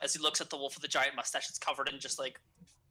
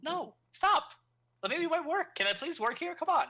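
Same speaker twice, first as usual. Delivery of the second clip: put-on whiny kid voice; 12 semitones higher than usual. Kid worker complaining in character.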